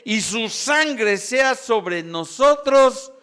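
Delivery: high, slow, insistent cry; crowd's shouted oath. Retold or imitated. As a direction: call it out slowly as a mob's vow. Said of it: "ellos gritaron". (juramento gritado, agudo y lento)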